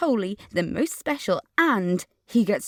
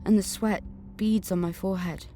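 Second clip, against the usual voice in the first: dream narration. A narrator's reading. Narrator recounts her nightmare vision, hushed. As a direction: draw the listener into the dream.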